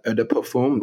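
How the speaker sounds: "eau de parfum" with a light French accent; light French pronunciation of "eau de parfum". Shown as a demonstration. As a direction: say "eau de parfum" the French way, nasal "parfum" ending in a nasal vowel. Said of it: "I'm trying to put a little French accent on it".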